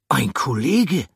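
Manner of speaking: high, loud character voice noting a find; a dry, knowing remark; high character voice, matter-of-fact; Pomme de Terre's voice. Acted. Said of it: "sagte Pomme de Terre".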